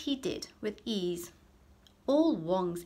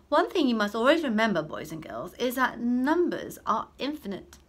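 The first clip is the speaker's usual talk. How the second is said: raised, emphatic teacher voice; stern teacher; 5 semitones higher, 7 dB louder than usual. Acted. Old teacher addressing his pupils, loud and emphatic. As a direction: lecture the class like an old maths teacher.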